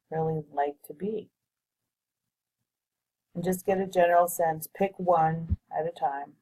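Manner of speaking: measured meditation guide with long pauses between phrases; guided visualization. Real, not acted. Guiding listeners to float above their future timeline, guided visualization voice. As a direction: lead them through it unhurriedly, pausing to let them picture it.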